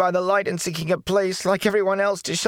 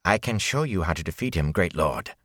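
unruffled; 4 semitones higher than usual. Acted. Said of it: "his voice was unruffled".

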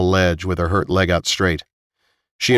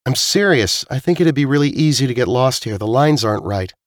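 higher-pitched character voice, earnest; earnest Zila; 5 semitones higher than usual. Acted. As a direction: insist on the warning in a raised voice. Voices Zila warning the others.

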